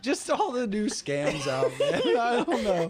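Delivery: laughing through the words. Real, not acted. Explains laughter while still laughing.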